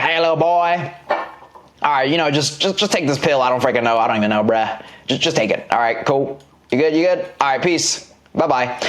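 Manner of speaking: lightly put-on hillbilly accent, offhand. Careless doctor handing a patient a pill, hillbilly accent. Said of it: "he has, like, s-, this hillbilly accent".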